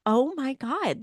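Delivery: high exasperated "oh my God". Retold or imitated. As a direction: throw up your hands, high. Exasperated reaction.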